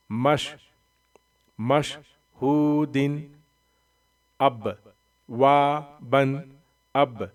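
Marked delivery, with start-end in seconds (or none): 1.6-3.2 مشہودن drawn out slowly, ending in a clear nasal -un; slow tanween reading. Shown as a demonstration. Teacher drilling pupils, reading مشہودن slowly. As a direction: read مشہودن slowly, syllable by syllable. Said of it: "Quran reading drill".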